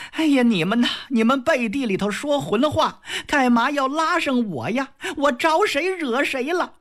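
high wronged maid's whine; aggrieved complaint. Acted. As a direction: plead that it isn't fair.

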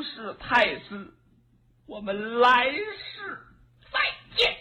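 high, pleading court lady who sobs now and then; a wronged concubine pleads her innocence, teary; tearful young woman. Acted.

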